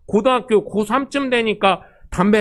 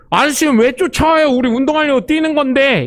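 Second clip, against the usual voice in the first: cheeky protest; 5 semitones higher, 3 dB louder than usual. Retold or imitated. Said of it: "이러고".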